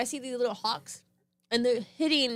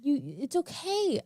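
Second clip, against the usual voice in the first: comforting sister; 5 semitones higher than usual. Retold or imitated. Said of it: "And I'm like".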